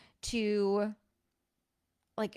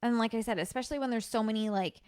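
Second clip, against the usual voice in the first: ordinary talk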